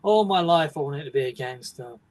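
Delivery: bored narrator, no big deal; laid-back, offhand. Shown as a demonstration. Showing how the actor does say it, bored and offhand. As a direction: say it casually, voiced and unimpressed. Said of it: "sounds like it's a, not a big deal".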